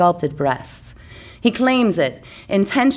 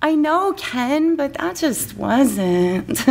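Barbie voice; 6 semitones higher, much slower than usual. Acted.

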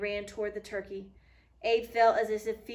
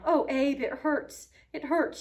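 put-on a touch of a child's sob, higher and louder; mock sobbing; 5 semitones higher, 6 dB louder, slower than usual. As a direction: play the hurt little sister, lightly tearful. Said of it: "she sobbed".

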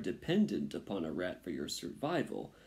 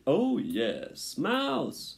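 gleeful, leaping high on the last word; excited rat chiming in; eager agreeing rat; 8 semitones higher, 4 dB louder, much slower than usual. A narrator's reading. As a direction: agree with greedy glee. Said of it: "agreed another".

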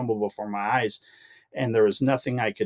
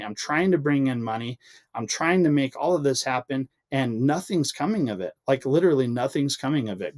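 venting at God, fed up but not shouting; retold frustration, pleading and worn out; frustrated plea to God; 3 semitones higher than usual. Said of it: "I would get so frustrated 'cause I'm like".

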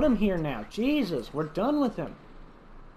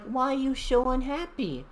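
dinosaur voice; 7 semitones higher than usual. Acted. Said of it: "he's like".

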